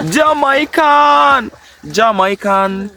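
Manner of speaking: high, drawn-out hype call; playful calling out. Pretend. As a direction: stretch the name out up high. Calls out own nickname playfully.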